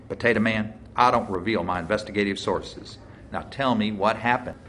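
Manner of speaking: lightly voiced deputy pressing a suspect; a hint of a folksy, accusing lawman. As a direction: lay out the charges with mild force.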